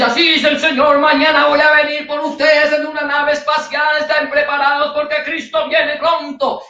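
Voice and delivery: a false prophet solemnly announcing a spaceship; mock prophecy. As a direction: play a pompous prophet announcing nonsense.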